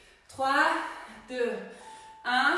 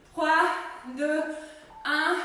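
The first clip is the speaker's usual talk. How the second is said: barking gym coach; slower than usual. Real, not acted. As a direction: call the count over the music. Countdown called loudly.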